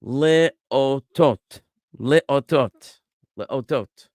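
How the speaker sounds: leotot said slowly three times, syllables clear; slow careful repetition. Shown as a demonstration. Teacher modeling leotot for students. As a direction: pronounce leotot carefully for the class. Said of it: "next word".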